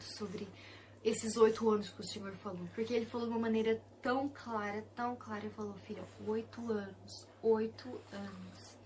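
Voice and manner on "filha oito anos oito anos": slow, deliberate calm voice; calm measured divine voice. Retold or imitated. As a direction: say it slowly and clearly. Voice of the Lord.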